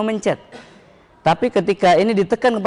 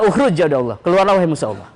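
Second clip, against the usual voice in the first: commanding exorcism call. Shown as a demonstration. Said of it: "Sambil berkata".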